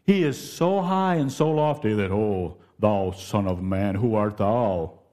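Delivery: put-on slow, solemn, stern old-fashioned voice; lightly hammed-up thundering God; mock lofty voice. Shown as a demonstration. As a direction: preach like a distant judging God. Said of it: "the tone of my voice".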